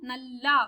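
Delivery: नल्ला ending in a full long "aa"; long final vowel. Shown as a demonstration. Teacher explaining the double-a spelling, नल्ला with long final "aa". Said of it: "पूरा double ये लिखी हूँ".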